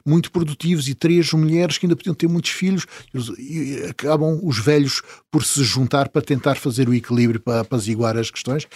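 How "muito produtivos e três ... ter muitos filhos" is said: raised, complaining elders' voice; quoted villagers. Retold or imitated. Traveller voicing the village elders, indignant and raised. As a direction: voice the aggrieved villagers demanding payment. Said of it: "porque eles dizem".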